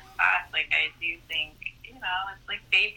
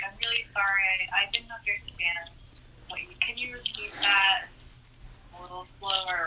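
soft, gentle apology; very kindly; 6 dB quieter than usual. Acted. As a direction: ask kindly and softly, as a polite request. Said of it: "like, very kindly".

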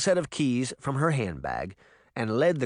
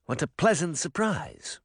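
forced pleasantness; 5 semitones higher than usual. Acted. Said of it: "forcing a smile to his face".

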